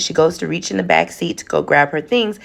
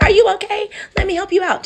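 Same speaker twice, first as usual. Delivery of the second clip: put-on much higher, small childlike concerned voice; little ghost girl; 14 semitones higher than usual. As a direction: play the little girl in the back seat. Ghost girl from the back seat.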